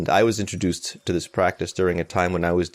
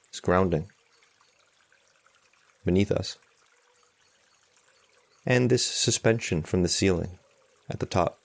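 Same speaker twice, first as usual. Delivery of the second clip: calm meditation guide with long, unhurried pauses; guided meditation. Acted. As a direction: guide them gently, leaving space between phrases.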